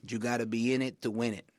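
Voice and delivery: light imitation of a dad's thick Puerto Rican accent; a hint of Puerto Rican accent on the old saying. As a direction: quote dad in a mild Puerto Rican accent. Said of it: "thick Puerto Rican accent".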